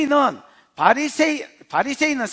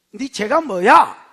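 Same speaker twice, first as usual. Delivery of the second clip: slow, loud demand of a judge; a judge barking at the accused; stern judge; 5 dB louder, slower than usual. Acted. Judge interrogating a defendant in court, stern and slow.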